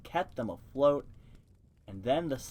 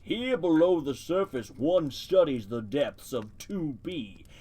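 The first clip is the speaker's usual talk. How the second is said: deep voice. Acted. Turtle in the mud lecturing the mice, lightly deepened voice. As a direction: read it a touch deeper, ponderous and pedantic. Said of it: "give it a deep voice".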